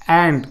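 अँड with open "a" of "cat"; short A modelled. Shown as a demonstration. Teacher showing short A in a word, अँड held open. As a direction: say अँड deliberately, vowel held. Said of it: "कसं आहे मित्रांनो".

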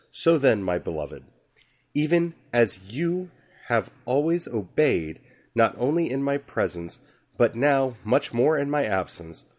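slow, measured reading of the epistle; solemn scripture reading. Acted. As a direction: read the Bible passage with weight. Reads scripture passage aloud.

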